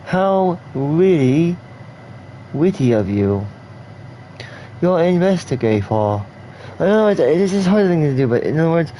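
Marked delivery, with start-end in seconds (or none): 0.0-6.2 English speaker's R-to-W lisp on "really"; says w for r. Shown as a demonstration. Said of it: "talk, say, for example, with a lisp".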